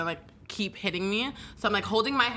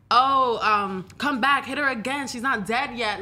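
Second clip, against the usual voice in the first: jeering taunts; 4 semitones higher, 4 dB louder, slower than usual. Retold or imitated. Victim quoting onlookers in the video, mock jeering. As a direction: imitate a heckling crowd, higher and louder. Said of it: "you can hear them talking shit like that".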